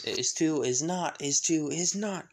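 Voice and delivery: back-and-forth squabble, pitch climbing; childish bickering. Acted. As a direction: bicker like two squabbling boys. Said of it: "Liebe and Asta pretty much doing this".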